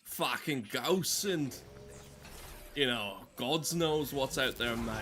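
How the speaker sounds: slow, hammed-up Australian accent ending on mate; lightly faked Aussie drawl. Streamer imitates the only real Aussie, bad Australian accent. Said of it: "stop trying to do the fucking accent".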